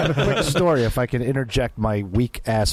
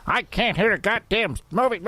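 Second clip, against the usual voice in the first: put-on grumpy old man; 6 semitones higher than usual. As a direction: scold like a fed-up old man. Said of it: "I was the old guy going".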